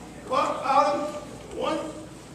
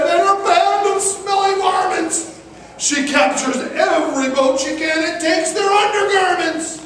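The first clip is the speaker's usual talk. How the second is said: frightened pirate; 5 semitones higher than usual. Acted. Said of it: "someone said".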